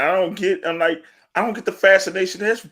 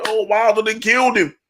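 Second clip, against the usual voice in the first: retold scream; 6 semitones higher than usual. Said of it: "I remember I was screaming".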